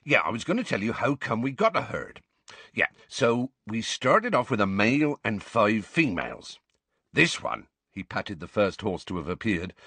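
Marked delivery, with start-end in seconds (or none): 0.0-7.7 rustic gamekeeper addressing his class; hearty, informal teacher with a country lilt; lightly voiced Hagrid, genial gamekeeper.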